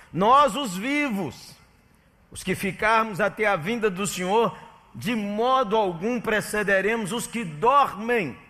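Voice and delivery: high, loud, slow pulpit proclamation; a loud, solemn Bible reading that rises throughout; preaching scripture reading. Acted. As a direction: thunder the verses out slowly to the congregation.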